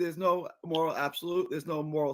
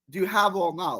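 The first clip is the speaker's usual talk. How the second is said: ordinary delivery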